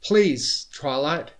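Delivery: high, loud plea; pleading shout, easing on the last word; desperate scream. A narrator's reading. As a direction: cry out begging. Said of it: "Starlight screamed and threw herself".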